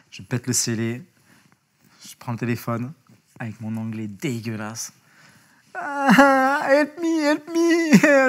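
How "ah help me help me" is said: high, loud panicked cry for help; scorpion-stung tourist panicking on the phone; panicked plea. Retold or imitated. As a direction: beg for help in bad English, frantic. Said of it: "tu sens que la panique est là".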